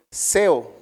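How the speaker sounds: "seo" with the stress on the E; Greek word seo. Shown as a demonstration. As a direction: say "seo" and lean on its E. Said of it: "con acento en la E".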